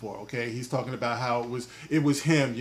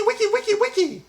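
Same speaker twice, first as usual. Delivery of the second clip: record scratch chant; 4 dB louder than usual. Pretend.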